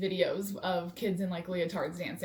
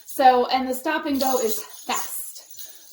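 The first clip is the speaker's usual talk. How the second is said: out of breath; 3 semitones higher, 8 dB louder than usual. Real, not acted. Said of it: "I'm a little out of breath".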